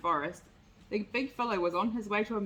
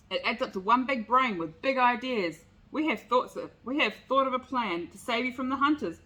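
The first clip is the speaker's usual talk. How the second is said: shouting gnat; 3 semitones higher, 4 dB louder than usual. Acted. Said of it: "shouted Nate".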